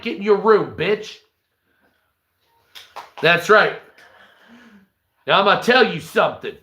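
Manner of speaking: a hint of a swaggering thug; lightly voiced cocky tough guy; Gatlin voice. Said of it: "that's Gatlin".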